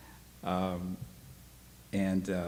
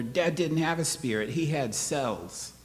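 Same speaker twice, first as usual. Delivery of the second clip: put-on boy insisting angrily to his mother; angry boy; 6 semitones higher than usual. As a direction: spit it out in anger. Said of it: "that made me really angry".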